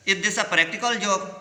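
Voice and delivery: each word drawn out slowly for the class; teacher reading a quote aloud slowly. Shown as a demonstration. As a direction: read it out slowly and clearly.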